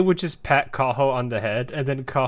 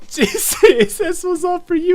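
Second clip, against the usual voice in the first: high, loud hammed-up wail; over-the-top tearful pleading; mock crying; 13 semitones higher, 7 dB louder, slower than usual. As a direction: wail it as if bursting into tears. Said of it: "She's crying".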